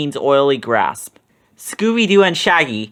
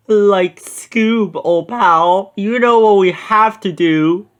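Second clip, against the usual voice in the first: higher, louder Shaggy voice; Shaggy crying out; 5 semitones higher, 4 dB louder, slower than usual. A narrator's reading. Shaggy to Scooby when trapped, higher cry. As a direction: plead to his old pal. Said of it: "Shaggy cried".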